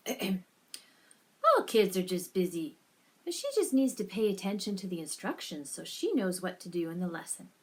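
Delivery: lightly acted brushing-off coach; bad acting.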